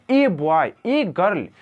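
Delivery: "ए" said as a stressed full ay; emphatic ay; pressed ay. Shown as a demonstration. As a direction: put pressure on the "ए". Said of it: "इसको ए बोलने का मतलब pressure देना".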